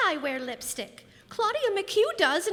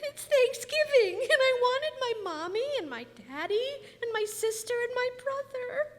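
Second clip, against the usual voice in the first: tearful; 5 semitones higher than usual. Acted. Child upset on Thanksgiving.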